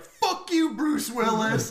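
high, lightly voiced angry daughter; mock bratty outburst. Daughter cursing at her father, mock outburst. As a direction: throw the curse out high, playfully cross.

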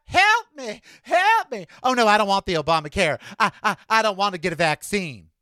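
mocking the anti-vaxxer's begging and refusing; mock pleading. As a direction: whine for help, then rattle off the refusal. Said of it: "But before that".

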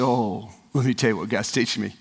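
low, hushed retold answer; sober reply. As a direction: drop down soft and grave. Retells grieving father's sober answer.

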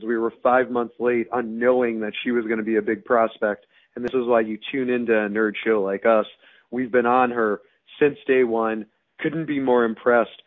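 hoarse, strained voice with almost no voice left. Real, not acted. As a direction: talk through a lost voice. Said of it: "I have no voice".

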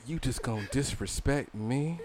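soft slow whisper. Retold or imitated. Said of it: "how you whispering that?".

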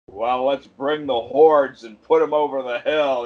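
a light John Wayne impression. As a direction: lightly imitate a cowboy star's delivery. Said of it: "his delivery is John Wayne".

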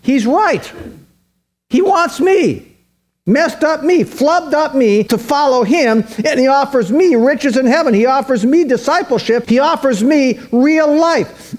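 a man realizing he's wanted, voiced lifted and wondering; imagined rich young man. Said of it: "that rich young dude said".

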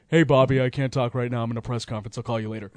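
low, soft imitation of a private call; hushed phone aside. Manager answers his phone mid press conference, hushed aside. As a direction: drop low and quiet, as if excusing yourself.

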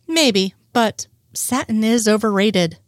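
slow, teasing comeback; playful. Acted. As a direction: tease him back lightly, slowly. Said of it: "he teases".

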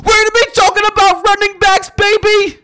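high, loud, excited hype; hype announcer. Acted. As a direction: sell it like a big show opener. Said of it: "Much better".

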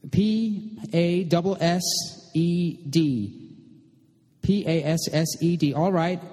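high, slow letter-by-letter phone voice; calling out spelled letters slowly in a high voice; struggling on the phone. A narrator's reading. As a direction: take down a message aloud, high and drawn out. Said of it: "still struggling with the phone".

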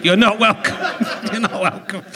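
You're not welcome said through real laughter, leaning on not; giggling version with not stressed; laughing. Real, not acted. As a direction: break up while repeating the line. Repeats it, cracking up.

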